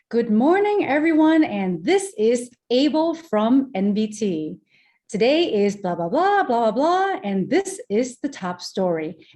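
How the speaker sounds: smooth, steady news anchor delivery; lightly voiced news anchor opening; news anchor read. Shown as a demonstration. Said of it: "softer, smoother voice".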